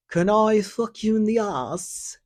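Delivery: high, mock sleazy old man; lightly mocked old man asking; creepy old man. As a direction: ask it like a leering old creep. Quoting the old man's requests.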